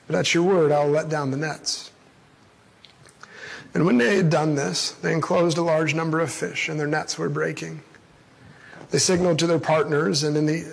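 measured, solemn Bible reading to the congregation; scripture reading. Acted. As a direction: read the passage steadily, like a lectern reading. Reading the Gospel passage aloud.

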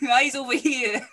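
put-on jealous girlfriend calling out; sharp call-out.

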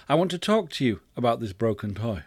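even, mild parental tone; calm request. Acted. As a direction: ask patiently in a level voice. Second request, irritation gone.

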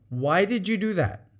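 calm, curious asking; really want the answer; gentle, sincerely asking; sincere question. Shown as a demonstration. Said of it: "One sounds like you're accusing".

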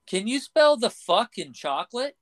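pitched well up, building to the payoff; lightly voiced clerk, leaning into the swear; mock clerk springing the punchline; counter guy's punchline. Punchline of retold joke.

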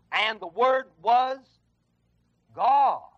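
slow, heavy "And the Word was God"; stress on God. Shown as a demonstration. Preacher to congregation, landing on God.

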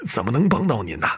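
slightly shaky, resigned pleading; a touch of trembling resignation. Acted. Dying painter resigning himself to the ghost, mildly trembling. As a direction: give up your life with a quavering voice. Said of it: "抖得话音都像在哭".

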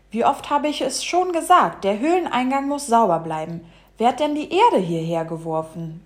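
indignant, emphatic telling-off; grumpy scolding. Acted. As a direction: scold like a fussy bumblebee. Bumblebee scolds about dirty entrance.

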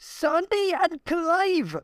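very high, long drawn-out wail; ghostly call. Acted. Ghost calling out to Sandy and Clive, high and drawn-out. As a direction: stretch the names out like a haunting spirit.

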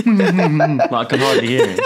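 high, loud words broken by laughter; laughing. Real, not acted. Storyteller cracks up describing the driver alongside, laughing. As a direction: talk through a real giggle.

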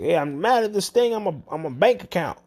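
caller's complaint. Retold or imitated. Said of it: "He's like".

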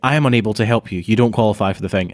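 quick, recited automated refusal; imitated robot caller. Robot ending a telemarketing call, mock automated voice. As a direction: imitate a machine reading its script. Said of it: "it's like".

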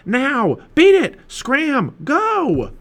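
high, loud volley of commands; yelling. A narrator's reading. Jack driving the octopus away, yelling. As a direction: shout each order separately, full force. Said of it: "Jack yelled at it".

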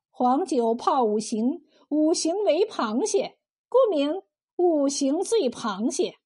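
measured recital, item by item; itemised explanation. Acted. Cook explains the five ingredients to the bully, one by one. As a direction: lay out each ingredient in turn, slowing toward the end. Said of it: "一一说道".

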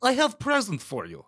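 imitating a menacing Russian woman's accent. Commentator mocks a Russian wife's gift line in a Russian accent. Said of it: "Imagine if a Russian said that to you".

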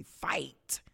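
a single breathy whispered word. Real, not acted. Host urging listeners, whispered fight. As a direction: whisper it like a vow to yourself.

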